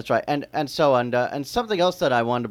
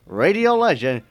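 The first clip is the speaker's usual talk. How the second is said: announcer build-up; 8 dB louder than usual. Acted. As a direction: roll out the guest's name like a game show host. Announcing the guest grandly.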